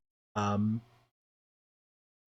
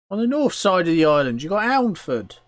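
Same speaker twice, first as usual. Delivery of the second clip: loud, high goblin voice; raised creature voice; explaining goblin; 10 semitones higher, 10 dB louder than usual. Acted. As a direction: spell out the town rivalry as a goblin.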